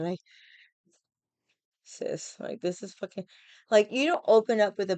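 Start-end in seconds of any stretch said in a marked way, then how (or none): 1.8-3.3 hushed whisper to a friend; whispered sis. Retold or imitated. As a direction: lean in and whisper the complaint. Band members murmuring complaint.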